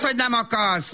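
normal talking voice

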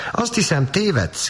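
put-on high childish cry; a girl crying out, high; cried out. A narrator's reading. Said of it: "kiáltotta". (magas, felkiáltó kislányhang)

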